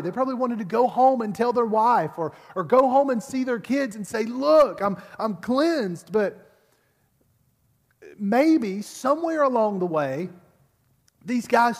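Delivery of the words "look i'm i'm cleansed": excited. Pretend. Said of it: "They were probably excited".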